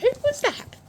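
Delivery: loud high call from above; calling down from tower. Real, not acted. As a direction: call out across the yard. Repeated call.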